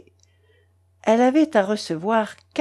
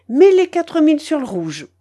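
commanding grandmother; 7 semitones higher, 5 dB louder than usual. A narrator's reading. Grandmother ordering big bet.

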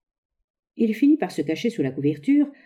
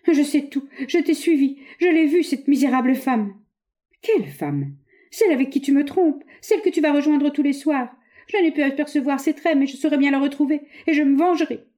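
raised, heated voice of a jealous wife; jealous accusation; 9 semitones higher, 3 dB louder than usual. Acted. Wife confronting her husband with jealous anger. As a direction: hurl the accusation at him, pitch high.

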